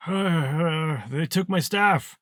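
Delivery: high, hesitant wizard voice; old wizard. Acted. Old wizard admitting his staff was taken, high and hesitant. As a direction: stammer it out high as an old mage.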